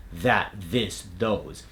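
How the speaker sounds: "That, this, those" each opening on a buzz; initial voiced TH. Shown as a demonstration. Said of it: "most of those sounds occur at the start".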